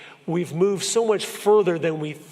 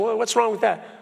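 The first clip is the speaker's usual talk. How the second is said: mock shrug; 6 semitones higher than usual. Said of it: "Most Americans go".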